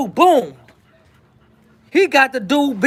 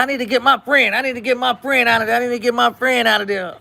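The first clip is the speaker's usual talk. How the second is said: put-on sweet girl voice; faster than usual. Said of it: "from that sweet voice".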